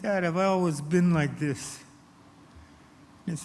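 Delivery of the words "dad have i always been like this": put-on higher, pleading child's voice; imitated tearful boy. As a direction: act a shaken boy asking his dad. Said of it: "started to tremble and to shake and cry".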